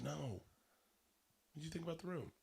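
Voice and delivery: soft, close-up correction; private, confidential. Retold or imitated. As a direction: keep it hushed, for one person's ears. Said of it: "like, real private, personal space".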